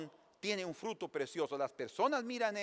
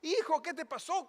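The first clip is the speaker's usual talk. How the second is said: worried nurse; 11 semitones higher than usual. Retold or imitated. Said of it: "una enfermera salió".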